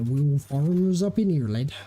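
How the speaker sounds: rustic English farmer voice; farmer accent. Retold or imitated. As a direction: put on a broad country farmer accent. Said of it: "was it".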